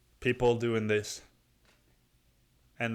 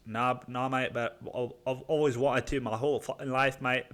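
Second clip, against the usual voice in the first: put-on shaky stab at a Scottish buddy's accent; attempted Scottish accent. Buddy answers about trying acid, fumbled Scottish accent. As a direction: badly imitate a Scottish mate. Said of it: "I'm not gonna get his accent right".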